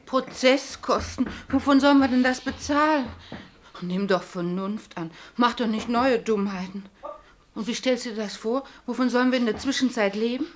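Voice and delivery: anxious pleading. Acted. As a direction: beg him to see reason. Ehefrau fleht Mann an. (ängstlich flehend zum Mann)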